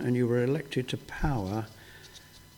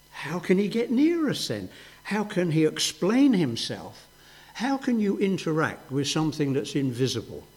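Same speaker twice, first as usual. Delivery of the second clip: higher, louder, puzzled questioning; preacher voicing the congregation's doubts, puzzled; doubting questions; 4 semitones higher, 4 dB louder than usual. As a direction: voice the listener's objection, baffled.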